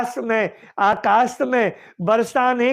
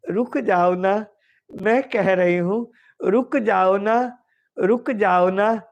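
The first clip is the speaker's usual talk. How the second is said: lowered, gently insistent entreaty; 3 semitones lower than usual. Acted. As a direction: plead in a low voice, phrase by phrase. Radha pleading with drifting cloud.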